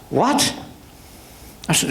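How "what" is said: sharp, higher startled question; the judge can't believe his ears; surprised what. Retold or imitated. Judge startled by the body wire request, surprised.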